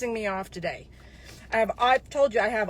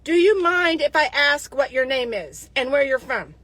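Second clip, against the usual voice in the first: mocking his message; 5 dB louder than usual. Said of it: "that's what that says".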